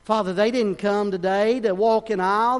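fervent prayer. Real, not acted. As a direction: cry out the prayer with preaching force. Prayer rises to full force.

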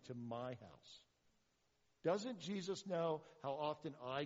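voicing the crowd's indignant grumble; resentful string of self-justifying questions; grumbling. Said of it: "They grumbled".

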